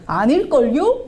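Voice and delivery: put-on high, loud teasing child voice; doubting second grader, playfully; cheeky kid. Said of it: "막 이래요".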